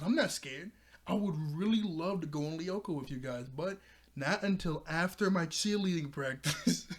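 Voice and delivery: lightly voiced cheerleader protest; mock a cheerleader insisting she isn't scared; imitating Sissy. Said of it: "It's the way she said".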